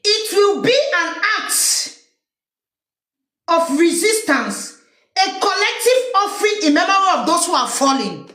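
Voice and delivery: slow formal read; lightly stately proclamation; reading the statement. Retold or imitated. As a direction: solemnly intone it. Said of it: "Isa Chiroma say".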